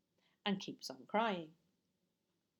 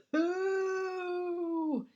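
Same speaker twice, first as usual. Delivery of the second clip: loud, higher disgusted exclamation; disgusted burglar; 8 semitones higher, 5 dB louder than usual. Acted. Burglar smelling the nappy, loud and disgusted. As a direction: recoil at the smell.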